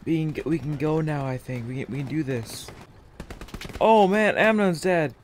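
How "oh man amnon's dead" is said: shocked. Real, not acted. Squadmate just died in game.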